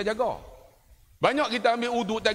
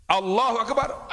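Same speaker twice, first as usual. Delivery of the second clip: takbir demo; 3 semitones higher than usual. Retold or imitated. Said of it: "saya duduk di Mekah".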